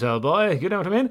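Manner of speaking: put-on British army commander voice. Speaker imitates the guy in charge of British Army types, British Army officer impression. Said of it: "speaks very like this".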